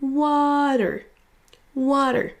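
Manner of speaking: WA in "Water" held long and high, then falling; long first syllable. Shown as a demonstration. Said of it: "on va prononcer la première plus longue". (première syllabe de Water longue et accentuée)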